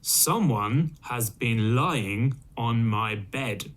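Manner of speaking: slow, lightly voiced papa bear; a hint of a big slow father bear; great big voice. Father Bear seeing his blanket rumpled, slow big voice. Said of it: "in his great big voice".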